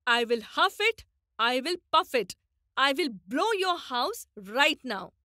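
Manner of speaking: a hint of a huffing wolf threat; big bad wolf. Shown as a demonstration. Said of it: "The big bad wolf said".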